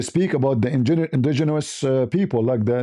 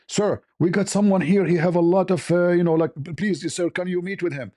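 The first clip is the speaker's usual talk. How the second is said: higher-pitched, imploring recruiter on the phone; eager recruiter; 5 semitones higher than usual. Retold or imitated. Recruiter calls his superior about a rare find, eager and higher. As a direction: imitate an eager junior calling a superior, pitched up.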